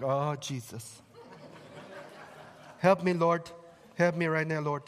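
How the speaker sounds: slow, laughing plea to the Lord; a hammed-up groan for help; mock desperate prayer. Preacher dreading difficult people, mock-praying slowly with a laugh. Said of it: "I don't know why I'm talking like this".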